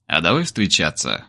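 low, soft, coaxing question; ingratiating. A narrator's reading. Kir asking Olka out, low, soft and coaxing. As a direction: ease it out gently to win her over. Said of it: "вкрадчиво спросил Кир".

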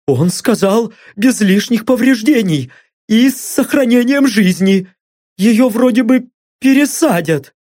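high, shaky pleading captive; frightened blond. Acted. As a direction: talk fast to save your skin. Blond's voiced answers.

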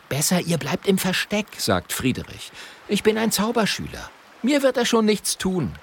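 high, earnest apprentice voice; a young wizard's apprentice speaking up; Friederich's voice. A narrator's reading. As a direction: sound brave but young.

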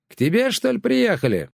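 shouting neighbour. Acted. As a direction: yell the question across the fence. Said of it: "кричала Валюшка".

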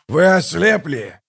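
yelling. Acted. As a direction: bellow at the blind gods. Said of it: "завопил Каллор".

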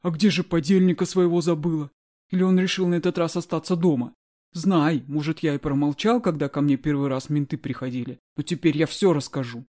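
loud, heated accusation; angry accusing. Acted. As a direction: hurl the accusation at her. Guard accuses her, chair in hand.

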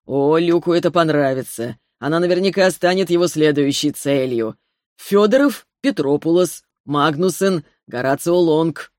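relishing each name, menacing; gloating villain. Acted. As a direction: savor the list like a villain. Villain gloats listing victims.

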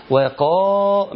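وقا stretched slowly on the long a; drawn out madd. Shown as a demonstration. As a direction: hold the alif in وقا. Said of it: "أنا بحافظ على المد الطبيعي اللي بالواو".

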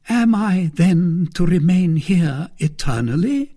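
rising alarm at being held; a certain terror. Acted. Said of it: "with a certain terror".

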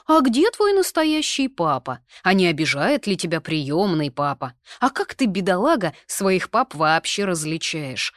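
high, loud mock gossip voice; mock busybody questions; nosy gossips. A narrator's reading. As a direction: mimic prying busybodies. Imitating nosy gossiping people.

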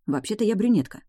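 ordinary delivery, nothing marked

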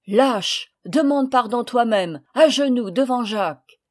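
loud, commanding order; Paul commands Léon to kneel, imperious. Acted. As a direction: order him to his knees. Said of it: "d'un ton impérieux".

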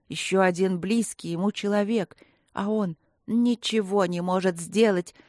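ordinary delivery, nothing marked

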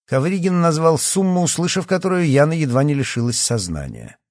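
plain reading voice

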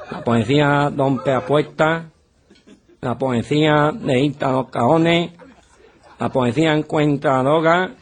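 slow recital. Acted. Benito recites his poem.

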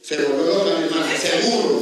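said through a laugh. Retold or imitated. Priest recalling he thought his sister mad, laughing. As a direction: chuckle through "loca". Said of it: "pensé".

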